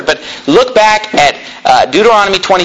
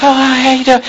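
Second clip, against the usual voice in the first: mock pastor; 5 semitones higher than usual. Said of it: "talk like Michael or something".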